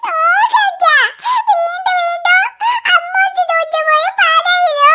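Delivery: wailing complaint between sobs; acted crying. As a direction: cry it out to daddy like a wronged little girl. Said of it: "നീ എന്തിനാ കരയുന്നത്".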